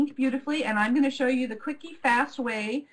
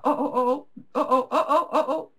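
mock panic. Real, not acted. Camera slipping, panicked oh oh.

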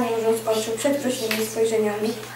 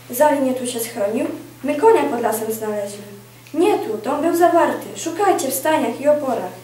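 loud calls among searchers; urgent, raised voices in a manhunt; shouted search; 2 semitones higher, 4 dB louder than usual. Acted. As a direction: call out orders to the search party. Armed searchers shouting during a manhunt.

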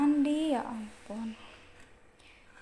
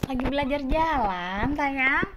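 high loving pet talk; 4 semitones higher, 10 dB louder than usual. Real, not acted. Baby talk to kitten.

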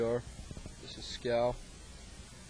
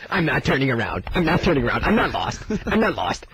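put-on stubborn old man; 6 semitones higher, 11 dB louder than usual. Voicing the stubborn grandfather.

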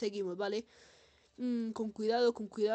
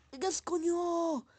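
exasperated yell; 8 semitones higher, slower than usual. Real, not acted. Enemy releases gas again.

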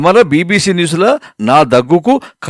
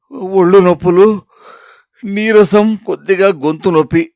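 ailing complaint; 5 semitones higher than usual. Acted. Sick husband lists his symptoms.

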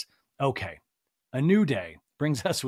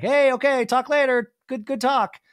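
hurried interruption; 10 semitones higher, 7 dB louder than usual. Retold or imitated. Rob cutting off the call.

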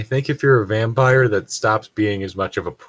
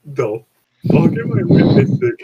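shrieking in disbelief, much higher and louder; a high, stunned yelp of outrage; appalled squeal; shocked; 12 semitones higher, 4 dB louder than usual. Real, not acted. Shocked outburst reading bad fanfic.

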